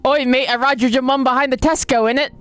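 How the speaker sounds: exaggerated British lad parody; mock British accent. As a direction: taunt in an over-the-top British accent. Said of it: "Like, it's like".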